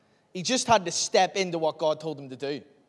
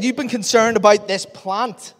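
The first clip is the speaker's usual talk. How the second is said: much louder, higher proclamation; booming reading; 5 semitones higher, 9 dB louder than usual. Real, not acted. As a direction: read it out with full preaching force. Reading God's reply with force.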